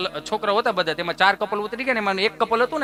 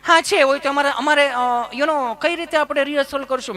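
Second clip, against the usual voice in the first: mimicking city lady; 6 semitones higher than usual. Mimics tourist woman.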